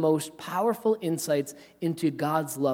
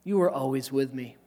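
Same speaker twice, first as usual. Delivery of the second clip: tender father. Retold or imitated. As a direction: plead gently with a hurt son. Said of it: "he says".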